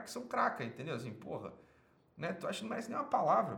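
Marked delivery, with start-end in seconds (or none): 2.3-3.6 exasperated disbelief. Acted. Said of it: "Pelo amor de Deus".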